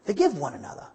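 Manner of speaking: mild gentle nudge. Shown as a demonstration. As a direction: ease it out like a patient friend. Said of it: "I was gentle, that's the word".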